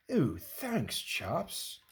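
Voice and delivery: a hint of a dry-throated monster; low gruff voice. The mini speaks at last.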